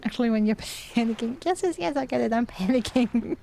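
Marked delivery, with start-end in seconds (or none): 1.4-3.4 impatient acknowledgement. Real, not acted. Gamer answering the game's panic warning, impatient.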